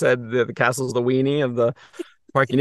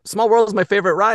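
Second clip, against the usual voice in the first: put-on kid voice; 10 semitones higher, 4 dB louder than usual.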